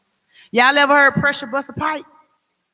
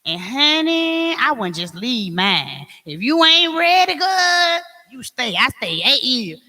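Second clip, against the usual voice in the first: gossipy friend; slower than usual. Retold or imitated. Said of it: "same person told you".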